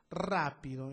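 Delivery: Rápido with a firm first syllable RA; stress on RA. Shown as a demonstration. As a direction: hit the start of Rápido: RA-pi-do. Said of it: "en ra".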